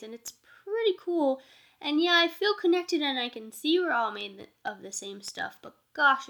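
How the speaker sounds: loud, bright-eyed enthusiasm, pitch up; excited. Retold or imitated. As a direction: gush about feeling special. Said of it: "people started to feel like".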